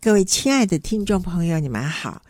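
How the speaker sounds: announcer-style greeting with big pitch swings; sing-song greeting demo. Shown as a demonstration. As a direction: greet the listeners showing the tones' melody. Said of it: "你看，就是好像一个曲调".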